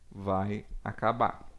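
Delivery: ordinary talk, nothing marked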